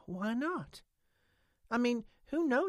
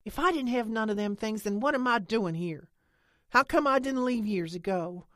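loud and high, rising to a cry; impassioned angry tirade; 7 semitones higher, 6 dB louder than usual. A narrator's reading. Lena defends waiting for the aliens, loud and fierce. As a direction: pour it all out, fierce.

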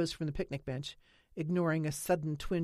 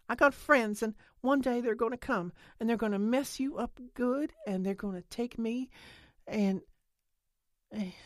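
higher-pitched rush, petering out on "and"; breathless outburst; 7 semitones higher than usual. A narrator's reading. Lena imagining telling him off, in an outburst. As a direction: build a threat, then run out of steam. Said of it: "The outburst had robbed Lena of her breath".

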